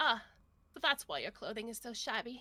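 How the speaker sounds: condescending, looking-down-the-nose sneer. Voicing a noblewoman answering a rival: looking down her nose. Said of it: "looks at you, just down over her nose".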